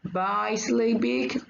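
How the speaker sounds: bisyllabic drawn out slowly, part by part; slow, measured bisyllabic with each syllable distinct; say-together demonstration. Shown as a demonstration. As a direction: stretch bisyllabic for a class to repeat. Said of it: "Let's say them together".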